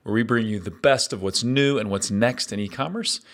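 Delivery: upbeat host intro read over music; podcast intro. Acted. Host opening his show with an upbeat intro read. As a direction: welcome listeners like a radio host.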